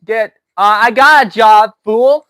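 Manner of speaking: loud, heated retort; angry shout. Real, not acted. Yelling at the heckler who called him fake, angry loud. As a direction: bark it back at him, insulted.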